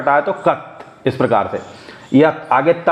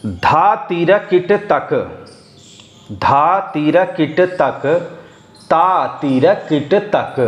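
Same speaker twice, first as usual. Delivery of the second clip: slow bol recitation; slower than usual. Shown as a demonstration. Teacher reciting tabla bols slowly to students. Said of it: "बोल पढ़ रहा हूँ मैं आपके सामने".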